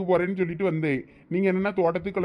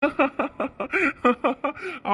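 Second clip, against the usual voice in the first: high teasing laughter; mocking laugh; 7 semitones higher than usual. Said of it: "அதுல என்ன சிரிப்பு வேண்டி இருக்கு நக்கலா".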